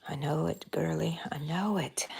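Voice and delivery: soft whisper. Real, not acted. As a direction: breathe it softly. Whispered sympathy.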